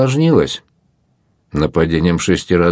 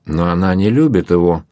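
usual speaking voice

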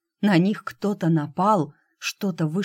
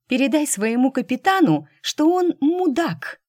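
angry; 9 semitones higher, 4 dB louder than usual. Acted. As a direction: spit the insult at the machine. Angry woman insults the computer.

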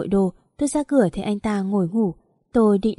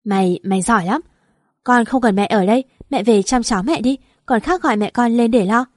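louder, bitter comeback; angry retort; 4 dB louder than usual. Acted. Mother-in-law scolding her daughter-in-law, angry and louder. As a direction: hit back with scorn.

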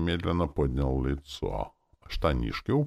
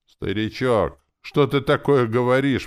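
loud, high-pitched startled question; exclaiming; 9 semitones higher, 7 dB louder than usual. A narrator's reading. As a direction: burst out in disbelief, voice jumping up. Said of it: "воскликнул я".

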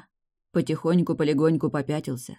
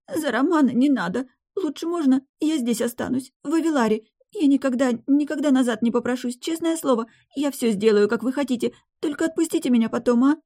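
high, pleading babble; babbling; 8 semitones higher than usual. A narrator's reading. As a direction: beg him tearfully. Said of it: "пролепетала". (лепечет умоляюще, высоким голосом)

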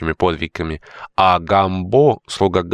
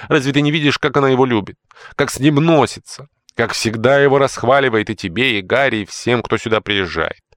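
much higher, louder indignant tirade; jealous tirade; 8 semitones higher, 4 dB louder than usual. Acted. Housekeeper rants to George about his mother. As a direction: pour it out, outraged.

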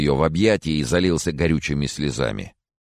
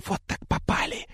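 softer unvoiced whisper; 5 dB quieter than usual. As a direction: dread under the breath. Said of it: "шёпот Софи".

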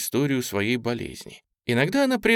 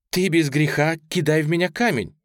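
gloomy contralto; 6 semitones higher, 3 dB louder than usual. A narrator's reading. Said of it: "мрачным контральто проговорила".

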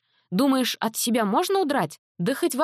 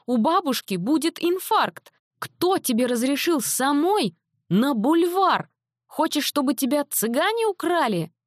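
scolding mother; 9 semitones higher than usual. A narrator's reading. Mother scolding her runaway daughter, high frantic scolding. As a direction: tear into her, frightened and furious.

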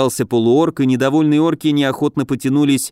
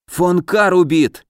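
higher, drawn-out alarmed exclamation; frightened cry; 6 semitones higher, slower than usual. A narrator's reading. House spirit reports a sudden death, frightened cry. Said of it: "испуганно вскрикнул домовой".

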